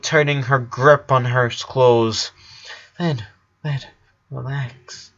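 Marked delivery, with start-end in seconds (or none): 3.0-5.1 soft hushed reassurance; calm her down in a hush; whispered. Acted. Brother soothing his crying sister, hushed. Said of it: "whispered Lincoln".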